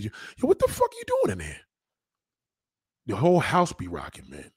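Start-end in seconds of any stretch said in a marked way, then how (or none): 0.0-1.6 much higher mock call through the wall; hammed-up neighbor yelling. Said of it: "Your neighbor's gonna be".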